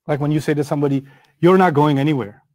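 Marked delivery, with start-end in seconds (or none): 1.4-2.4 low, falling, final; matter-of-fact authority, no room to argue; authoritative statement. Shown as a demonstration. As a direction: forbid it as plain fact. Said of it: "You speak with such authority".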